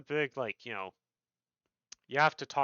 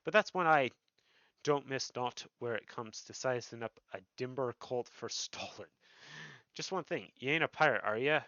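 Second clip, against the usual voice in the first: lightly voiced rogue boss, less Irish; sizing up a newcomer, lightly acted; guild master voice. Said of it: "I should probably not give him the same accent".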